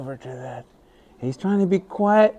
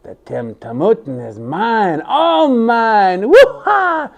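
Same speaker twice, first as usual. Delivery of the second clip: gloating trickster; 3 semitones higher, slower than usual. Acted. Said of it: "Sinclair thought to himself".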